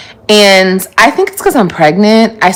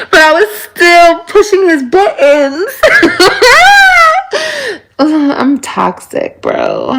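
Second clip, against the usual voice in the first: laughing; 9 semitones higher, slower than usual. Real, not acted. Laughs at herself being toxic.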